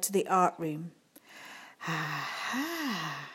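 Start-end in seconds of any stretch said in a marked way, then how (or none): 1.9-3.3 soft, breathy discovery; breathed. A narrator's reading. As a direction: breathe it out quietly. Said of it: "she breathed".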